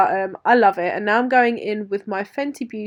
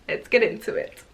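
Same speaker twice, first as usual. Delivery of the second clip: breathy whisper of "let's get into it"; playful whisper to start the tutorial. Pretend. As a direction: lean in and whisper it.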